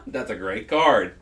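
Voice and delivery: said slowly through laughter; laughing. Real, not acted. Friend repeating the joke line, laughing. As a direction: chuckle the words out.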